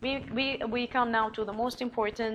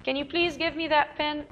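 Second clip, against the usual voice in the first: asking request; 5 semitones higher than usual. Retold or imitated. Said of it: "acted request".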